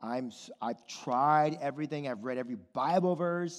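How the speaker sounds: low, soft, halting weariness; discouraged believer. Acted. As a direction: voice a struggling believer's quiet despair. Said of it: "And you're like".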